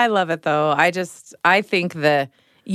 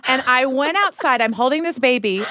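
ordinary talk, nothing marked

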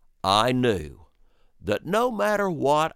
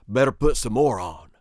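whispered fast, conspiratorial; 3 dB louder, faster than usual. Retold or imitated. Brother whispering to brother over the baby. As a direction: hush it like a secret plan. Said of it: "repeated quote, now whispered".

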